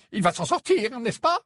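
ask, fearing the answer; anxious. Acted. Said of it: "demanda le Premier ministre anxieux". (d'un ton anxieux)

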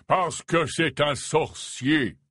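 slow, unsmiling and serious; deadpan. Acted. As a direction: say it without a smile. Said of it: "sans l'ombre d'un sourire". (sans l'ombre d'un sourire)

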